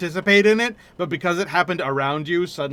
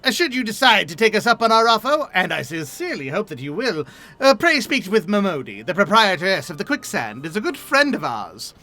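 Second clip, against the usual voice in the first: lightly voiced earnest young scholar, formal; a hint of a formal, earnest young scholar; polite young scholar; 3 semitones higher than usual. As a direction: read it as a courteous young scholar.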